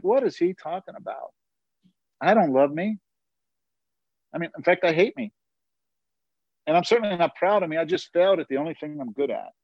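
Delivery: acted-out incredulous inner voice; baffled disbelief. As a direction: retell it as puzzled self-talk. Acts out his baffled inner reaction.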